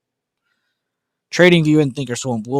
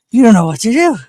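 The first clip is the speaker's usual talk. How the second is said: high, loud sing-song to the dog; 10 semitones higher, 10 dB louder, faster than usual. Real, not acted. Owner cooing to a confused dog, doggy baby talk. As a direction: coo it at the puppy.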